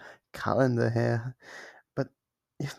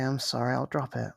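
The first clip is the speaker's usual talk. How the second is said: normal talking voice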